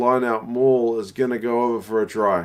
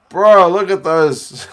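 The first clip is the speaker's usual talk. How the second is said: excited disbelief; 8 semitones higher, 10 dB louder, slower than usual. Real, not acted. Laughing at pink underwear.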